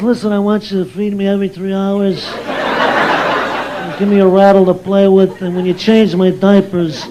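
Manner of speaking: lightly voiced deadpan wiseguy baby; tough-talking newborn. Newborn instructing father on diaper care, deadpan wiseguy. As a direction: give slow orders like a little boss. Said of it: "talking like this".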